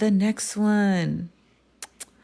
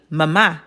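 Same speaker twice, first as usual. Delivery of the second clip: mama with a short first syllable and strong final MA; stress on second syllable; 3 semitones lower than usual. Shown as a demonstration. Teacher shows students the accented word, mama stressed ma-MA. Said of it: "put the emphasis over the letter".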